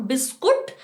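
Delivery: बिस्कुट with oo, rising like a question; wrong version. Shown as a demonstration. Teacher quizzing pupils, wrong बिस्कुट with oo. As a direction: play the pupil answering बिस्कुट. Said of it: "नहीं".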